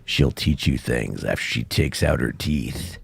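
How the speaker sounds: low, slow, sickly voice. Shown as a demonstration. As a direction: croak it out like you're ill. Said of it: "I'll do that in my real sick voice".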